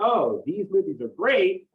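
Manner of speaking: lightly acted sarcastic approval. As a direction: say it slowly as if rolling your eyes. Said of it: "he's being sarcastic".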